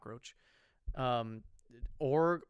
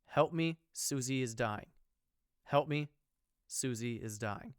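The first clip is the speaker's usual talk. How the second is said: monotone phone voice; slower than usual. Retold or imitated. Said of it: "a monotone voice that answers".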